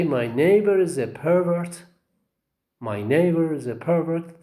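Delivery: "pervert" stressed on PER; first-syllable stress. Shown as a demonstration. Teacher models the noun in a sentence, stressing PER in "pervert". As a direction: hit PER in "pervert", drop on the second syllable. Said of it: "acts as a noun".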